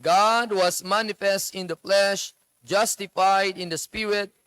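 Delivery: slow, measured scripture reading; Bible reading aloud. Acted. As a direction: read the verse slowly to the congregation. Congregation reads Bible together. (mabagal at taimtim na pagbasa ng Bibliya)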